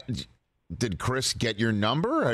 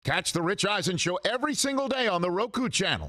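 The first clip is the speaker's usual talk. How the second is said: higher-pitched announcer plug; show promo read; 7 semitones higher than usual. Real, not acted. Host tells viewers when to catch the show, promo read. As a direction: pitch the show to listeners, voice lifted.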